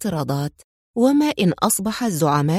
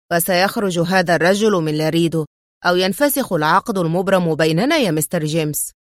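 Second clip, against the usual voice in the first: stern; 3 semitones lower than usual. Acted. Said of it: "بلهجة صارمة".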